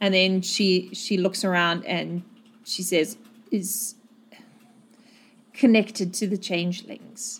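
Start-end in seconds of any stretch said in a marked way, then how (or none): 3.5-7.4 hoarse tearful voice, quieter. Voicing a woman who has taken Lauren's hand, hoarse from crying. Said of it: "her voice is so hoarse because she has been crying".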